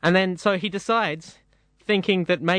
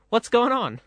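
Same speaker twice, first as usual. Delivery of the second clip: higher, bewildered cartoon bird asking what's going on; confused bird Bob; 7 semitones higher than usual. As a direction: play Bob the baffled bird, pitch jumping up. Bob confused again in joke.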